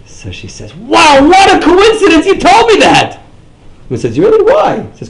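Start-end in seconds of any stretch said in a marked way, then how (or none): 0.7-3.2 squealing, shrill surprise voice; mocking high gossip voice; high-pitched gossipy woman. Acted gossip quote, high squeal. 4.2-4.8 high squeaky mock question; mimicking surprise, high and loud; mock surprised. Acted quote, high pitch.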